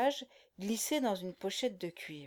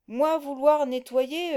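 slow, loud dim-witted grunt; faked guttural voice; 4 semitones higher, 6 dB louder, slower than usual. A narrator's reading. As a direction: play dumb in a thick guttural voice. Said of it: "contrefaisant une voix gutturale".

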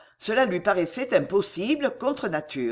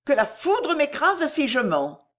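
high-pitched, grave swearing; solemn, emphatic vow; solemn oath; 8 semitones higher, 3 dB louder than usual. A narrator's reading. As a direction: swear it with ceremony. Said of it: "d'un ton solennel".

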